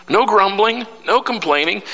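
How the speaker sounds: pitched high, ringing out the no's; high preached command. Acted. Pastor exhorting his congregation, pitched high. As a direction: call it out high over the room. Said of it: "Do this without grumbling".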